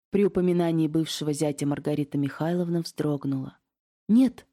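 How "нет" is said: sharp scared cry, much higher and louder; frightened cry. A narrator's reading. Aunt startled by her ex-brother-in-law's name, frightened cry. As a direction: blurt it out in a panic. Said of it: "испуганно вскрикнула она".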